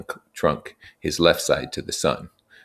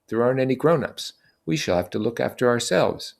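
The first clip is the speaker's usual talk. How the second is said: put-on raised, earnest young leader; Ralph addressing the boys; 8 semitones higher than usual. Ralph explaining their situation to the assembly, earnest and raised. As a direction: lay out the facts to the group.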